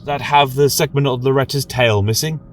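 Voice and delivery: a nervous novice asking his elder; eager young acolyte. Acted. Young acolyte asks anxiously.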